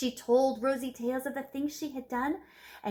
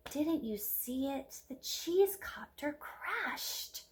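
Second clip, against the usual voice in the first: ashamed whisper; 2 semitones higher, 5 dB quieter, slower than usual. Acted. Rosie ashamed of failure.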